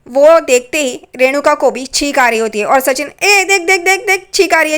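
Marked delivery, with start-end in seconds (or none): 3.2-4.8 excited pointing out. Retold or imitated. Sachin points at sneezing aunt, high and excited. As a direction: gleefully catch her in the act.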